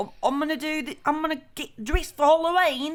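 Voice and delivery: failed Irish accent. Telling about Irish people arriving in the United States, attempting a bad Irish accent. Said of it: "I can't do the Irish accent. It's like an English pirate".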